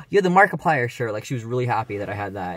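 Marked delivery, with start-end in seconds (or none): 0.1-1.1 high, loud delighted quote; excited niece. Retold or imitated. Niece thrilled about the shirt, high and loud. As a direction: squeal it like a thrilled kid. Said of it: "she was like".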